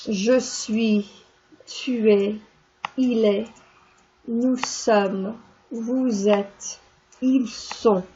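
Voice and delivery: each pronoun and form said slowly and clearly, je suis, tu es; French conjugation drill. Shown as a demonstration. Teacher reciting être for the class. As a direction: model the être forms one by one. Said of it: "That's how I conjugate the verb".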